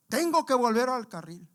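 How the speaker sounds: grito agudo y fuerte, cada vez más alto; gritando como loco. Retold or imitated. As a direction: gritarlo desesperado, fuera de sí. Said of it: "empieza a gritar, hermanos, así como loco". (grito agudo de hombre drogado que clama en la calle)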